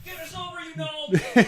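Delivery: distant yell from another room. Real, not acted. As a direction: shout it from down the hall. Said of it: "he yells from the other room again".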